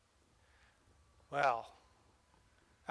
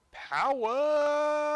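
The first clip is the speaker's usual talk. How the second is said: a high, loud shout of "Power!"; 10 semitones higher, 7 dB louder than usual. Real, not acted. Driver thrilled by the speed, shouting high and loud. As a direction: roar it out as the train speeds up. Train hits top speed.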